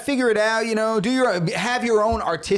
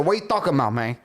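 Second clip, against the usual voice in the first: mock Cuban accent, puzzled; put-on Hispanic accent, casually defensive; Scarface; 2 semitones lower, much faster than usual. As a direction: imitate a fake Cuban gangster accent. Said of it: "Why are you talking like that?".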